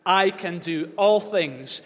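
slow loud unison recitation. Shown as a demonstration. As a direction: chant it together, slowly. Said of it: "Say it again".

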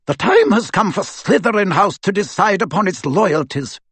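a brisk headmistress giving orders; stern professor. A narrator's reading. A stern witch instructing a fellow teacher, crisp. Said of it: "interrupted Professor McGonagall".

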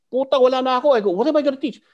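loud, high-pitched protest; exclaimed dismay. Retold or imitated. Teacher left without training weapons, loud high dismay. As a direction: burst out at being left empty-handed.

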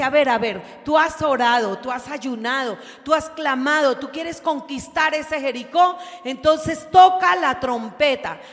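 loud, rising divine challenge; God challenging. Acted. God urging the faithful to blow the trumpet, loud. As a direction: voice God daring them to act.

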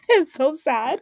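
high, slow, laugh-filled whine; laughing pity. Real, not acted. Storyteller pitying herself, giggling lament. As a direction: draw it out while giggling.

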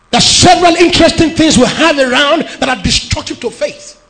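loud, ringing sermon delivery; preaching at full force. Acted. Pastor preaching to the congregation, loud and fervent. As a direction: preach it out to the whole church.

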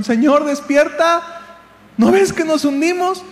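high-pitched urgent wake-up call; desperate plea. Acted. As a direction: act the sinking disciples begging for help. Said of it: "Ahí vamos en nuestra desesperación". (súplica angustiada y aguda)

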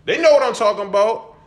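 high, fast hype rant; hyped up. Real, not acted. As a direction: fire up the listeners. Host hyping audience.

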